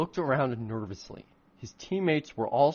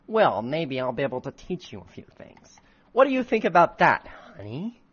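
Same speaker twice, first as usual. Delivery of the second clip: flirty witch; 2 semitones higher, 4 dB louder than usual. Acted.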